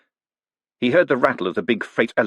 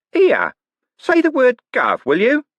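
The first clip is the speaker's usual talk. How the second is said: high, loud, slow suspicious demand; 6 dB louder, slower than usual. Acted. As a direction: draw it out as if testing him. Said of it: "in a suspicious voice".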